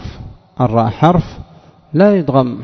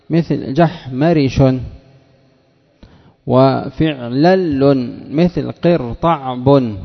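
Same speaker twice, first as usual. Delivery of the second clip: very slow, each syllable spelled out; slow, careful pattern dictation; much slower than usual. Shown as a demonstration. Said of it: "teacher spells out word patterns".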